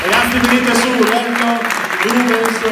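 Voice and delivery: calling out. Real, not acted. Calling the kids over.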